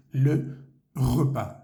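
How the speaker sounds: le repas, French r and silent s. Shown as a demonstration. Teacher models le repas for Spanish learners, slow and careful. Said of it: "Una comida en francés se dice".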